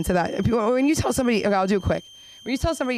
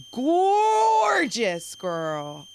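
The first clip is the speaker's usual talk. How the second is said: gushing; 5 semitones higher, much slower than usual. Pretend. Comedian gushing over the movie's tall actress, drawn out. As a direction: swoon over the word gorgeous.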